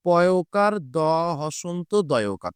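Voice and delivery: পদ্ম then its letters spelled out very slowly; teacher spells পদ্ম letter by letter, slowly; slow spelling out. Shown as a demonstration. Teacher to students, spelling out পদ্ম very slowly. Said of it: "এটার উচ্চারণ কি হবে".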